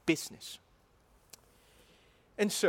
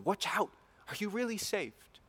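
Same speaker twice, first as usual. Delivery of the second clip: stern warning; 5 semitones higher, 3 dB quieter than usual. Retold or imitated. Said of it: "he says that to warn this person".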